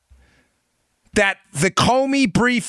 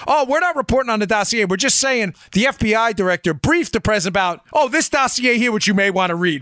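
mock innocent media; 3 semitones higher than usual. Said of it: "Wink and a nod".

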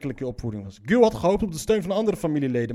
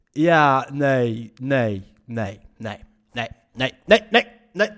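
exasperated no; 5 semitones lower, 4 dB louder, much slower than usual. Real, not acted. Gelooft verhaal niet, protesteert.

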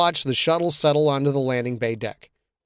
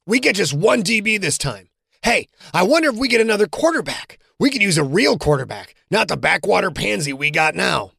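higher, quick mock jeer at the end; taunting teammate; 6 semitones higher than usual. John baiting Quentin in the landing bay, mock jeering.

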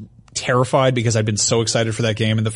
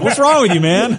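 laughing disbelief; 10 semitones higher, 4 dB louder than usual. Retold or imitated. Disgusted at Big Boss.

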